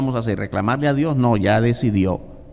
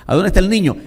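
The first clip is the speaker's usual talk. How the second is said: higher and louder question; raised question; 7 semitones higher, 5 dB louder, much faster than usual. Acted. Preacher to congregation, raised question. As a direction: call it out.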